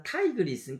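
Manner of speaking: 타이그리스, T opened to 타이, stressed first; English Tigris. Shown as a demonstration. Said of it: "이 T가 I로 발음이 나거든요".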